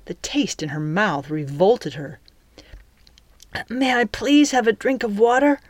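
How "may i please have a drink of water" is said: high-pitched, meek little plea. A narrator's reading. Captive girl begs the captain for water, meek. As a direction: ask politely like a sorry orphan. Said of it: "I sound as meek as any sorry orphan".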